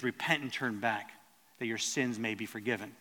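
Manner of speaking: gentle, hushed plea to repent; quiet compassionate urging. Retold or imitated. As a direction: ease off and call them back tenderly. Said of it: "he has a softer tone".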